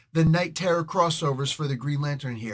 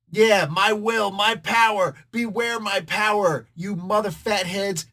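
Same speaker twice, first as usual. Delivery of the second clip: louder and higher, slow and grand; hammed-up hero's oath; 4 semitones higher, 5 dB louder, slower than usual. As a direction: declaim it like a superhero swearing an oath. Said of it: "That's how the oath goes".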